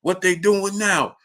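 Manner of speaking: lightly voiced old uncle; imitating blind uncle. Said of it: "He, man".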